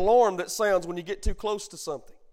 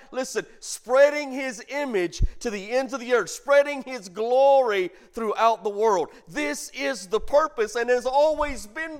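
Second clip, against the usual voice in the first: louder, building pulpit fervor; preacher driving home God's purpose; rising preaching; 2 semitones higher, 3 dB louder than usual. Acted. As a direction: preach it up to the rafters. Preaching rises in force.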